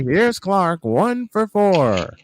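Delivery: lightly voiced announcer call, slowing at the end; a hint of a ballpark announcer; Vin Scully call. Husband teasing his wife with the call, mild announcer voice. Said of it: "I did the Vin Scully call".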